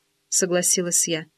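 usual speaking voice

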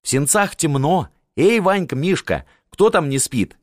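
high call into the dark hall; calling servants. A narrator's reading. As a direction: summon the servants from the next room. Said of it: "позвала слуг". (зовёт слуг, громко)

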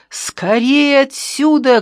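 high, loud, drawn-out cry; urgent shout. A narrator's reading. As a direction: cry out to get everyone moving. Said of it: "крикнул Ящиков".

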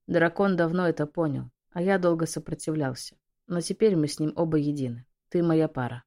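usual speaking voice

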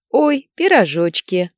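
high, loud, drawn-out squeal of joy; delighted. A narrator's reading. Nika spots the pies and gushes with delight. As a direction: gush over the pies. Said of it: "обрадовалась Ника".

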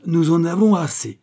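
loud rallying protest cry. A narrator's reading. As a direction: shout it to the crowd. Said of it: "m'écriai-je".

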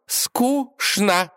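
«Скучно» split into slow syllables, high; spelled out syllable by syllable. A narrator's reading. Princess hammering the word home to her father, «Скучно» syllable by syllable. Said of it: "повторила по слогам".

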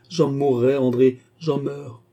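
loud, high cry of despair, slowing at the end; acted, overwrought anguish; suffocating distress. A narrator's reading. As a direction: gasp it out as if overcome. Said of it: "comme si elle suffoquait effectivement".

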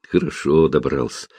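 tender, easy reply; affectionate. A narrator's reading. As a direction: say it kindly, almost purring. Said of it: "ласковым голосом ответил Ларри".

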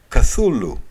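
Καθούλου with a stray "a" slipping out after the k; stumbling American pronunciation. Retold or imitated. Lecturer imitating an American reading Lovecraft, stumbling pronunciation. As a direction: trip on the k of Καθούλου into an extra vowel. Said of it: "Με ένα άλφα που ξεφεύγει σκοντάφτοντας".

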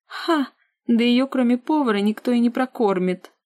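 high, loud mocking laugh into a taunt; scornful jab. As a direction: slam her with scorn. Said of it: "Припечатала сестра".

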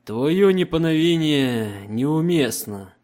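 slow, loud, commanding Emperor. Acted. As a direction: speak as an unshakable emperor. Emperor voiced in audiobook.

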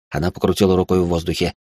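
plain reading voice

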